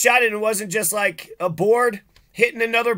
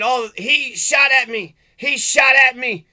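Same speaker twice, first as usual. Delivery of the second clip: mock accuser; 2 semitones higher, slower than usual. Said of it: "he's just saying".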